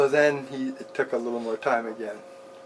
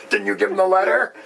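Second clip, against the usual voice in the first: incredulous inner voice; 8 semitones higher, 5 dB louder than usual. Retold or imitated. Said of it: "that's what I was saying to him inwardly".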